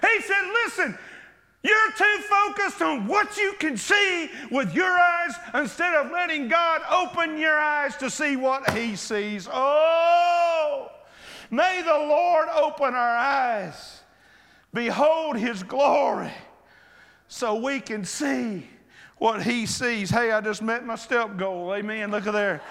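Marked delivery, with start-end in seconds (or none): 0.7-9.5 fervent exhortation. Acted. Elisha exhorting, preached. 9.5-20.1 prayerful close. Acted. Closing prayer, slow.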